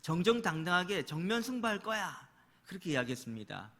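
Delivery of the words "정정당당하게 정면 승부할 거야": acted indignant king, raised voice; angry retort. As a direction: play an angry king digging in, louder and higher. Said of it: "화를 내면서". (화난 왕을 흉내 내며 언성 높여)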